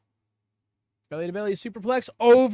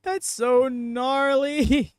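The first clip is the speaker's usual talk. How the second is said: amazed; 7 semitones higher, 5 dB louder, much slower than usual. Real, not acted. Reacting to a brutal move.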